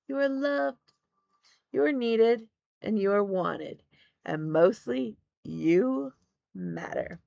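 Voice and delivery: slow, measured encouragement with high lifts on "you"; affirmation sign-off. Real, not acted. Host reminds viewers they matter, slow affirmations. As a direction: spell out each affirmation slowly, with pauses.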